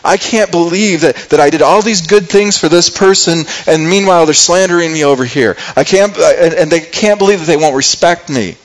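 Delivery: mildly worked-up complaint; very frustrated. Acted. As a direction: vent in disbelief, pushing the words out. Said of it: "He's getting, getting very frustrated".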